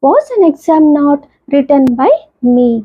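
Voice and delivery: very slow, word-by-word example read; slow classroom reading of an English example; slow dictation. Shown as a demonstration. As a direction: spell the sentence out slowly for students. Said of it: "teacher dictating example sentence".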